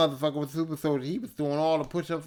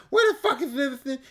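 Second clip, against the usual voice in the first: higher, louder mock yell with a laugh; mock drill sergeant; 10 semitones higher, 5 dB louder than usual. Drill sergeant at bed check, mock angry yell. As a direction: bark the roll call. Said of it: "drill sergeant bed check".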